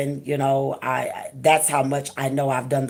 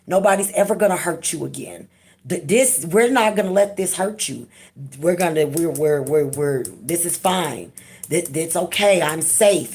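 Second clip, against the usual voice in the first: put-on reassuring her inner child. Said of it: "I had to tell her".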